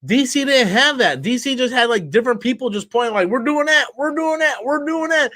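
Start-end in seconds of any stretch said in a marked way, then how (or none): 3.3-5.3 mocking high voice. Mocking DC's chaotic direction.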